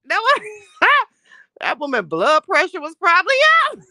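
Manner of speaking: real laughter bubbling over; laughing. Real, not acted. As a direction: talk through giggles. Laughing while telling story.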